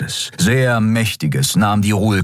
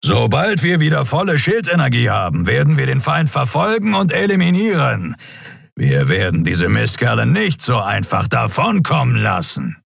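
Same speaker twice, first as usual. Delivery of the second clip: raised, determined vow; grim captain; 6 semitones higher than usual. Acted. Captain Thron vows to his crew to hunt the enemy, determined.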